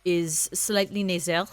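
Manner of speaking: slow nasal French accent; a lightly nasal French accent, with slow drawn-out vowels. Shown as a demonstration. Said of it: "that's really good".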